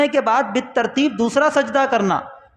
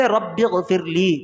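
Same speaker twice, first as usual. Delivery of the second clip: very slow, lower-pitched recitation; slow dictation; 5 semitones lower, much slower than usual. Shown as a demonstration. Teacher giving learners the prayer for the sitting, slow dictation. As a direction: draw out each word of the prayer.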